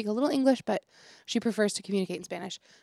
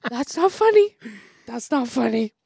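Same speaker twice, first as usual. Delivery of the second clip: stifling laughter; 6 dB louder than usual. Retold or imitated. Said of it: "trying so hard to keep a straight face".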